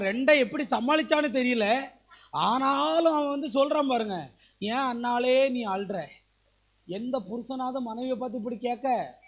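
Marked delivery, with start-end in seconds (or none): 4.6-6.1 slow, gentle, imitating a caring husband; husband pretending sweet concern for his crying wife; mock tender husband. Husband tenderly asks weeping wife.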